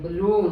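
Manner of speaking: बलून with weak ब and loud लून; stress on LOON. Shown as a demonstration. Teacher demonstrates बलून, stress on लून. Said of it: "लून पे stress है".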